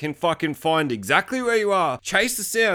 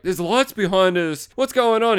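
mock alarm; 4 semitones higher, 4 dB louder than usual. Wife voiced alarmed at lights behind.

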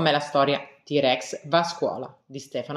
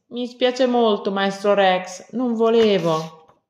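high, slow, loud, anxious pleading; frightened apology; 7 semitones higher, 5 dB louder, slower than usual. Acted. Little Rex apologizes to the teacher, frightened and high. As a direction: beg forgiveness in a small scared voice. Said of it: "Spaventato per quello che aveva fatto".

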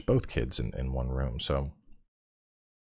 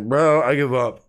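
exasperated; 7 semitones higher, 7 dB louder than usual. Retold or imitated. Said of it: "I'm like".

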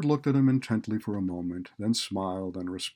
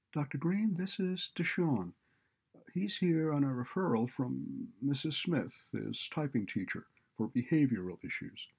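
lightly higher-pitched receptionist; 6 semitones higher than usual. A narrator's reading. Receptionist introducing a referred student to Doctor Green, higher-pitched. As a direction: announce the visitor in a higher receptionist voice.

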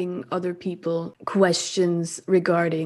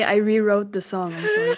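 laughing apology; 3 dB louder than usual. Real, not acted.

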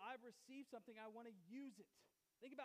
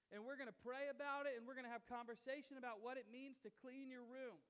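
mock earnest daughter; 5 dB louder than usual. Daughter hyping her plan to her dad, mock earnest and building louder. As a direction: play the eager daughter whipping up her plan until she's nearly preaching it. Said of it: "But she was like".

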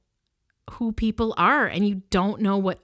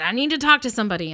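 mock gruff demand; 3 semitones higher, 5 dB louder, much faster than usual. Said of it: "he was very aggressive".

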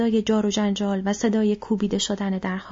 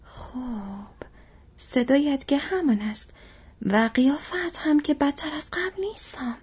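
surprised; 6 semitones higher than usual. Acted. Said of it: "با تعجب گفت".

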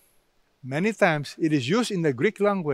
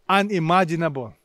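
usual speaking voice

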